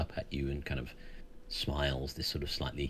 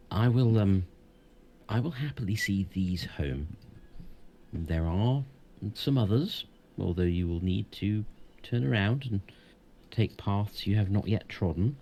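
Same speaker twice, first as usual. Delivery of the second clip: wise centaur, raised and solemn; proud voice with horse snorts; 5 semitones higher, 6 dB louder than usual. Acted. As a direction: speak as a proud, ancient centaur. GM holds the centaur's voice.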